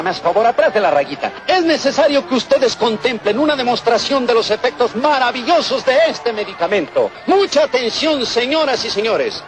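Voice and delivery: street remedy pitchman spiel; hyped fairground barker. Acted. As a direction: sell the cure to the crowd. Merolico selling miracle remedy.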